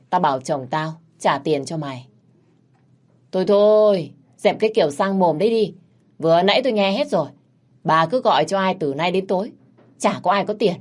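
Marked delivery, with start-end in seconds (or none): 3.3-7.3 higher, louder cutting-off scold; scornful scolding. Acted. Taxi driver cuts off the stingy old woman, scornful and loud. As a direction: shut her down with contempt.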